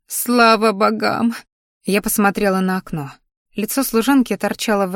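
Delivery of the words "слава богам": "Слава богам!" drawn out slowly through sobs; slow, tearful thanks; tearful relief. Acted. Maid Pikси sobbing with relief at her mistress, slow. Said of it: "Пикси плакала навзрыд".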